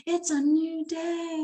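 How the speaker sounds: high, slow chirpy bird voice; cheerful birds. Retold or imitated. Author voicing backyard birds greeting morning. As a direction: sing it like waking birds at dawn. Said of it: "They are just like".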